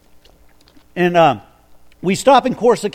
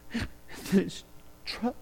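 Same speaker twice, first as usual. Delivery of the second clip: hushed quote; 3 semitones higher, 12 dB quieter, much slower than usual. Retold or imitated. Quoting the crying man.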